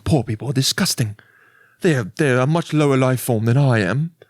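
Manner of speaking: lightly put-on posh British; a touch of British upper-class disdain; posh British snob. Rich person voicing thoughts on the poor, mock posh British. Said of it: "rich people used to talk out loud".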